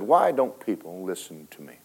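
soft, falling sorrowful question; hushed grieving plea. Retold or imitated. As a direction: ask it low and heavy into the silence. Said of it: "all heaven went quiet".

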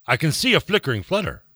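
poem recited in an amateur British accent. Shown as a demonstration. Co-host reciting a favourite poem for a texter, British accent. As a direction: read verse with a put-on British accent. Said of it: "read it and do it in a British accent".

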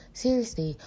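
normal talking voice

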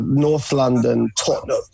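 thick North London accent on the place name. Shown as a demonstration. British fan coaching the American host in thick North London. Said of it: "like, a thick kind of a".

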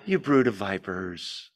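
lightly gentle, kind reading; mock gentle. Shown as a demonstration. Preacher mocking a gentle reading of John, soft and kind. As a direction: say it softly as if kind. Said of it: "with a gentle, kind".

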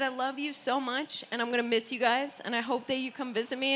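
soft, low, tender farewell; heartfelt goodbye. Retold or imitated. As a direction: say a gentle goodbye to family. Retold heartfelt family goodbyes.

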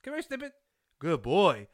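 high sing-song pet call. Pretend. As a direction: coax the little dog to come. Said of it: "a little chihuahua and his name is Snippet".

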